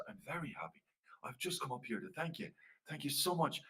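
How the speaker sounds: softly spoken gratitude; humble thanks. Acted. Flanagan comes up to thank the fairy man, speaking softly. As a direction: thank him meekly.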